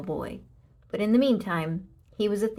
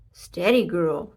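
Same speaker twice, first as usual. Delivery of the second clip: calling out; 7 dB louder, slower than usual. A narrator's reading. Calming a pig.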